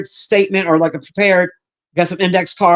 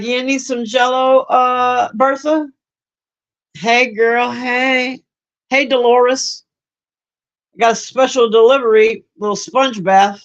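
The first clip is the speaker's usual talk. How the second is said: higher, playful nursing-home flirt; a lightly voiced old charmer sweet-talking the ladies; 4 semitones higher, slower than usual. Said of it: "He's like".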